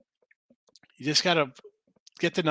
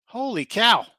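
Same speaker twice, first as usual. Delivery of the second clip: loud amazed exclamation; holy cow surprise; 5 semitones higher, 4 dB louder, slower than usual. Real, not acted. Host realizing his loser bet actually won, amazed. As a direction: blurt it out, floored by the score.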